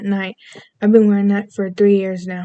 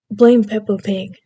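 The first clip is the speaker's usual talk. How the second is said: British accent. Shown as a demonstration. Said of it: "I can do a lovely British accent".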